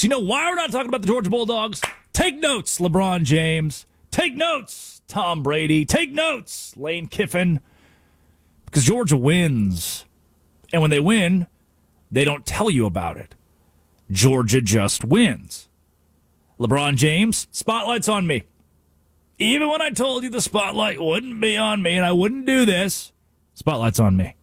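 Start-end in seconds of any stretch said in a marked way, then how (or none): 2.1-7.6 mocking take notes. Mocking a roll call of stars. 16.6-24.3 mock LeBron. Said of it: "mock LeBron impression".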